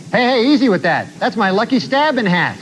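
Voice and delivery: hammed-up indignant outburst; mock blurt. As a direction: blurt it out like a startled defendant. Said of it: "he suddenly blurted out".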